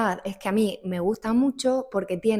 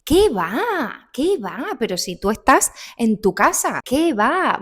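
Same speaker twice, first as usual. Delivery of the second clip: eager reassurance; 4 semitones higher, 5 dB louder than usual. Shown as a demonstration. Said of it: "tú le dices".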